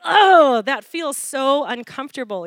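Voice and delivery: mock pained "oh", loud then settling; uncomfortable cat. Cat petted from tail to head, mildly acted discomfort. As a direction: start with a big groaned "oh", then ease off. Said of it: "pets him again from tail to head".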